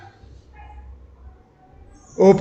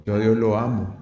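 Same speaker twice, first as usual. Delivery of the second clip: imitating a protest; 9 semitones lower, 5 dB quieter than usual. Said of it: "Usted dice".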